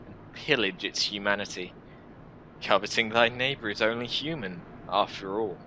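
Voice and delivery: lightly voiced jaded adviser; sardonic warrior. Warrior explains restoring humanity, lightly sardonic. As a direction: lay out the grim options with dry amusement.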